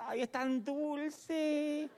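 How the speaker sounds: arrullo agudo, muy alargado; alárgalo como un enamorado embobado; embelesado en broma. Imita a novios embobados en una cita. (suspiro meloso de novio, exagerado)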